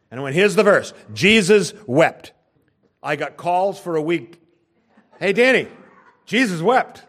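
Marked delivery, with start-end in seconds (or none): 0.4-2.3 proclaimed verse. Retold or imitated. Retold proclaiming the verse to unbelievers. 5.2-7.0 laughing, high mock greeting; playful high-pitched ribbing; teasing callers. Retold callers teasing him.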